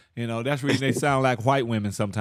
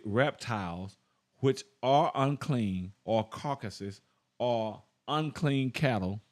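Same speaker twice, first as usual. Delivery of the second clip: soft, slow, measured reading; scripture reading; 3 dB quieter, slower than usual. Real, not acted. Preacher reading the Septuagint to listeners, slow solemn scripture reading. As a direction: read the verse deliberately, pausing after each phrase.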